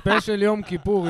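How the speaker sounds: laughing. Real, not acted. Laughing while speaking.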